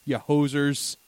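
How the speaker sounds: slow, hammed-up Canadian scolding; Canadian listener. A Canadian listener corrects the hosts on hockey, mock-stern. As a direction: lecture them as a huffy Canadian. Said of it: "one of our Canadian listeners would be like".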